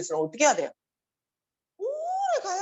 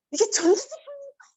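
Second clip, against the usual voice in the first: a presenter's teasing quiz question, pitched very high; playful mock quiz to the audience; quizzing presenter; 12 semitones higher than usual. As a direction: quiz the crowd, leading them on. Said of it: "이러더라고".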